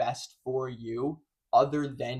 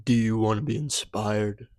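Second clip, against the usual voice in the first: louder mock-motivational question; inspirational intro; 3 semitones lower, 5 dB louder than usual. Host testing openings on viewers, playfully inspirational. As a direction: pose it like a hype speaker. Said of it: "which one of those you think was the most inspirational".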